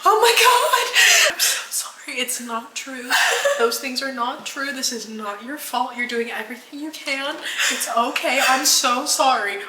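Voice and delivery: soft, hushed comforting through tears; quiet tearful reassurance on the phone; crying softly. Real, not acted. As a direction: soothe her while holding back tears. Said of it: "trying not to sound like I'm crying".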